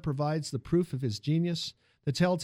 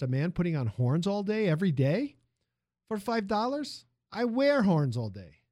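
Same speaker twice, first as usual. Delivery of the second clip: put-on lively Italian accent, raised pitch; 5 semitones higher than usual. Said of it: "the music of the man's accent".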